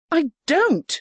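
high, light voice for Erica; young woman voice. A narrator's reading. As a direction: lift the voice for the young lady. Erica denies.

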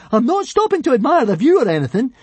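high, loud, huffy; indignant shout. Acted. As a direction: shout it offended. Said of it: "shouted back up indignantly".

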